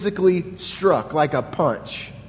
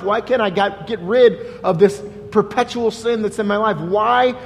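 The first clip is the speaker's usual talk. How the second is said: a pastor voicing a troubled believer's complaint to God; pleading prayer; 3 semitones higher than usual. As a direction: plead with God, frustrated and bewildered.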